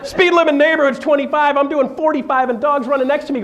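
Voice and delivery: excited laughing retelling. Real, not acted. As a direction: tell it racing with laughter. Wild chase story, laughing.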